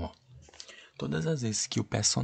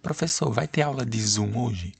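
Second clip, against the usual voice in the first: student asking. Shown as a demonstration. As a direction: call out to the teacher. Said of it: "Ponto de interrogação".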